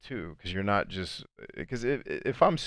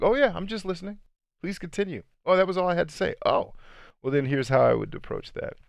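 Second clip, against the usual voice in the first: bright, much higher, overly polite phone voice; sweet sales voice; 11 semitones higher, 4 dB louder than usual. Retold or imitated. Salesperson on a call with a client, in a sugary high voice. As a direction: play the chirpy salesperson calmly picking up after the silence. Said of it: "I've had clients say".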